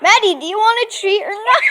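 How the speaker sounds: fast, laughing coaxing; talking to a dog. Real, not acted. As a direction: hurry the dog along. Urging dog quickly.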